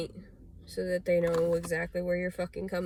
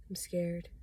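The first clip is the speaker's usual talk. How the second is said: hushed, breathy admission of fear; scared whisper. Real, not acted. Admitting fear to viewers, scared whisper. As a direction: whisper it like a confession.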